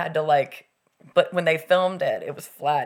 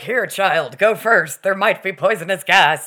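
cheerful adult; 7 dB louder than usual. Retold or imitated. Adult voiced sending kid in.

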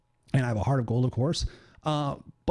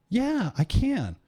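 smug agreement; 9 semitones higher, much slower than usual. Retold or imitated. Confident reply to wife.

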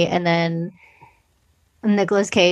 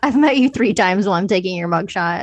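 laughing retold quote. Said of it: "And she's like".

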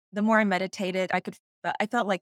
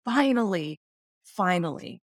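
retold excitement. Spirit guide after thirty-two years of waiting, retold excitement. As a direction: imitate an excited, relieved exclamation, dropping on the repeat. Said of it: "he was so excited".

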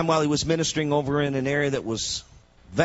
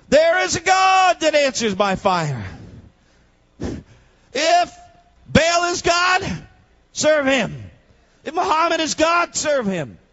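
much higher, louder, slow ringing challenge; climactic preaching; 12 semitones higher, 6 dB louder, slower than usual. Acted. Preacher daring the congregation to choose their God, full-force shout. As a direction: thunder it like Elijah on the mountain.

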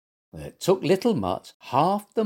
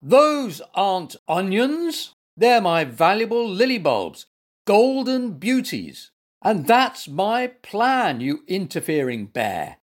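loud, high, indignant scolding; thundering; 8 semitones higher, 5 dB louder than usual. A narrator's reading. Gardener scolding the bear over his lily bulbs, thundering. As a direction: drag out the outrage, raised and forceful. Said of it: "thundered Mister Carr".

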